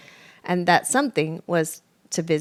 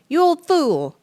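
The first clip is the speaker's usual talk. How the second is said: much higher and louder insult; angry fox; 11 semitones higher, 8 dB louder than usual. A narrator's reading. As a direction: spit it at the old mole. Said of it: "Freddy hissed".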